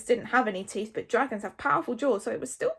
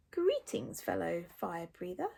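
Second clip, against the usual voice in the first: soft, whispery dragon greeting; sly breath-voiced creature; Newt's Breath hissing; 4 semitones lower, 7 dB quieter than usual. A narrator's reading. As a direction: hiss it low in volume. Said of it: "hissed Newt's Breath".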